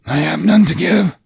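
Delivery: high, wailing otherworldly voice; mournful ghost. Acted. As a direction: lament like a doomed spirit.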